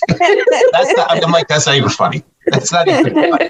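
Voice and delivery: laughing through the words; can't keep a straight face, laughing; half-laughing protest. Real, not acted. Laughing while retelling threat.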